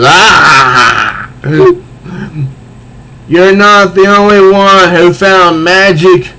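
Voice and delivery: hammed-up comic-book villain, slow taunt; villain Clayface. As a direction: taunt the princess, savouring each line. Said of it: "And he is".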